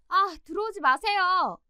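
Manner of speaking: high, slow, annoyed drawl; irritated refusal. Retold or imitated. 문 밖 엄마에게 딸이 짜증스럽게. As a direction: push mom away through the door. Daughter refuses mom at door.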